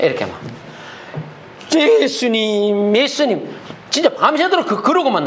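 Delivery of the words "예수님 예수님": a drawn-out, pleading 예수님, 예수님; slow murmured prayer. Retold or imitated. Preacher imitating a man praying all night, slow and pleading. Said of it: "뭐 이렇게만 했대".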